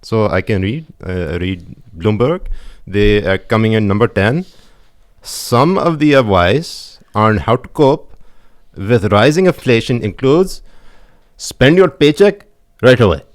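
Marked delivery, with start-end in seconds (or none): 1.3-13.2 put-on light Pakistani accent reading headlines. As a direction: read it in a mild Pakistani accent. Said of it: "I usually read it in a Pakistani accent".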